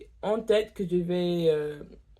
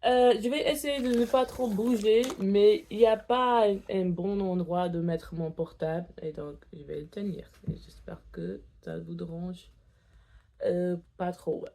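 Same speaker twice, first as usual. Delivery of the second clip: tongue piercing; 2 semitones higher than usual. Real, not acted. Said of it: "je me suis pas encore habituée".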